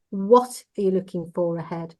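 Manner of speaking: "what" hit hard; stress on what. Shown as a demonstration. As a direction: lean on "what", then let the rest fall. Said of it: "we put the emphasis on each word".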